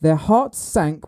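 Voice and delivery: "sank" leaned on within the clue; stress on sank. Real, not acted. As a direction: put the emphasis on "sank". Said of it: "you put the emphasis on sank".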